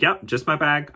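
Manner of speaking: answering a distant friend; calling back. Retold or imitated. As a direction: shout the reply up the slope.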